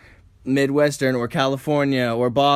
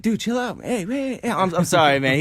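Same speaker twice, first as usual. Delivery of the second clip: mature guy intervening; 5 semitones higher than usual. Acted. Good cop apologizing for his excited partner, placating. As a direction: rein in an overexcited friend. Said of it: "trying to play the mature guy".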